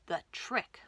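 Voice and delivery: hushed, mysterious title; whispered title. Acted. Reader whispering the story title to listeners.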